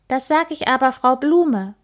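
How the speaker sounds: put-on timid child mumbling; mumbled threat. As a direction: mutter it, scared but defiant. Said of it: "nuschelt sie".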